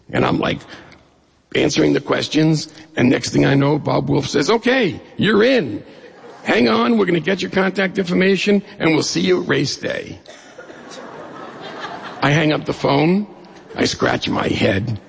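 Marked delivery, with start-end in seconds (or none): 4.5-10.2 high, brisk imitation of a host; lightly acted on-air enthusiasm, pitched up; upbeat radio host. Radio host signing up a caller live, mock upbeat.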